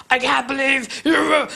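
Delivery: a hint of the angry older sister; lightly voiced sister's complaint. Retelling the older sister's rant about ruined shoes, mild mock voice. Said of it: "that's the way she talks".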